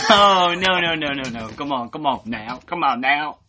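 loud, high outcry easing into urging; real pleading dismay; exasperated protest. Real, not acted. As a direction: cry out in dismay, then egg them on. Rapper has stumbled, friend protests.

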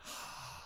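heavy breath out; mock heavy breathing on someone; demonstrated breathing. Shown as a demonstration. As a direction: exhale heavily as a demonstration. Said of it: "bullshit on my fucking breath".

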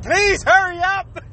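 lightly voiced kid begging; a hint of a child pleading slowly. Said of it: "as a kid, you're like".

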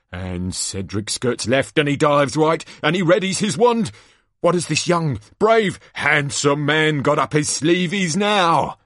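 showman's play-by-play, rising with the action; dramatic arena commentary, swelling in pitch; excited live commentator. Acted. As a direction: call each dodge for the crowd. Announcer commentates on the task.

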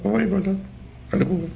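high, soft mock praise; sarcastic. Real, not acted. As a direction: sneer it out in a high thin voice. Mocking the caller's husband. (تمسخرآمیز، زیر و آرام)

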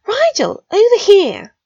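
high, loud call across a room. Acted. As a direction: friend calling Rigel over across the common room, loud call. Calling across crowded common room.

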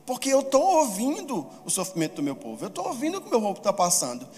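a touch of divine proclamation; voice of God. Acted. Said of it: "Ele fala".

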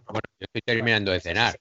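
talking with a mouth full; words round a bite of food. Real, not acted. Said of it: "con la boca llena".

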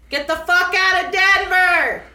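loud, high angry title; aggressive read-out. Retold or imitated. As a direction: read the title like a furious shout. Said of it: "the title is pretty aggressive".

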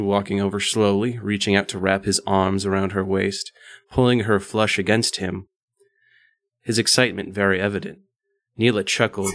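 measured, even read-aloud voice; composed audiobook-style reading; story narration. A narrator's reading. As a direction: narrate it steadily, phrase by phrase.

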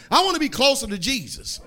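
squeaky chipmunk sound. Real, not acted. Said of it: "I sound like a chipmunk up here".

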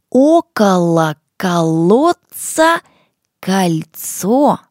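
slow, loud, word by word; slow and clear. Shown as a demonstration. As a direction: articulate each sound slowly. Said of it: "Внимание, вот что у нас получается".

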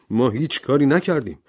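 a mild angry protest. Acted. Servant Rogers protesting to the judge, mildly angry. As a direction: protest the accusation. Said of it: "با عصبانیت گفت".

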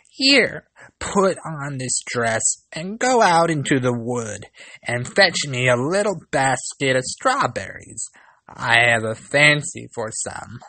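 a stern stepmother's commands; bossy stepmother. Acted. Stepmother orders the girl.

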